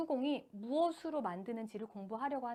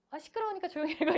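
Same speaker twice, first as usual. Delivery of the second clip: quick, annoyed mock scolding; irritated hush; 5 semitones higher, 3 dB louder, faster than usual. Parent mock-scolding a stumbling child, annoyed. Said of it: "이러셔도 안 돼요".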